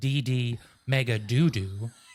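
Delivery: mock, slow, dead-sincere earnest newsreader delivery. Retelling a news blooper, imitating the reporter: imitating an earnest newsreader. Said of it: "she says it so earnestly".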